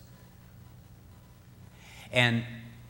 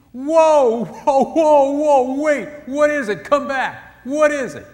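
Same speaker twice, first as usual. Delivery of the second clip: high, loud excited yell calling her back; a husband's overjoyed high shout from the bedroom; excited scream; 14 semitones higher, 14 dB louder, much slower than usual. Retold or imitated. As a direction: shout after her, thrilled and desperate. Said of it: "when he screamed".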